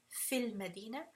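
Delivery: "Fil Madina" run together with a short i in "Fil"; joined, mad dropped. Shown as a demonstration. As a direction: join it as one "Fil Madina", no long vowel. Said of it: "when I join them together".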